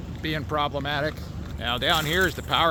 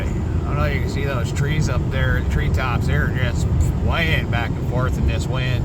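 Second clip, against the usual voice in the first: talking louder over howling wind; in strong wind; 5 dB louder than usual. Real, not acted. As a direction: raise your voice over the gusts. Outdoors filming treetops in heavy wind.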